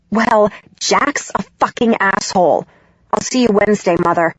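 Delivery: bitter, curt words; spat out. Acted. Daughter ending the call with her mother, spitting it out. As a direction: spit it out before hanging up. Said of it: "I spit out".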